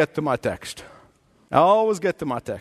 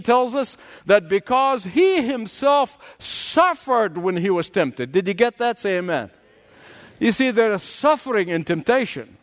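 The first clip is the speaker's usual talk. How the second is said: raised, emphatic sermon delivery; preaching; 5 semitones higher than usual. Acted. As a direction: preach it with deliberate pauses and punched key words. Preaches with force.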